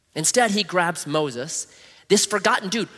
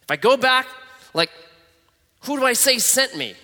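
hesitant Moses; 7 semitones higher than usual. Retold or imitated. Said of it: "he's like".

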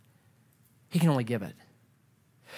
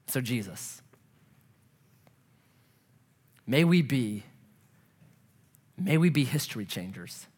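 measured prayer with long pauses; solemn prayer; 3 semitones lower than usual. Real, not acted. Preacher prays to Jesus for history changers, solemn. Closing prayer before communion.

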